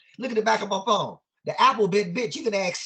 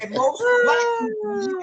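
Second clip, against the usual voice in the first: much higher and louder, laughing out the words; real laughter breaking through; 11 semitones higher, 5 dB louder than usual. Real, not acted. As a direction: crack up while you say it. Laughing after the joke.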